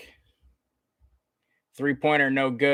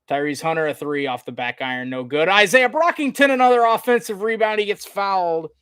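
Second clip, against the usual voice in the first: steady call jumping to high, loud excitement; sportscaster surging with the play; live play-by-play; 6 semitones higher, 5 dB louder than usual. Real, not acted. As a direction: burst up on the offensive rebound. Call builds on a rebound.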